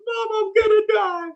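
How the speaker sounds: put-on very high wailing kid voice; whiny child. Grandson crying to his mom about a scraped elbow, whiny. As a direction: wail like a hurt little boy. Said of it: "Goes up to mom and goes".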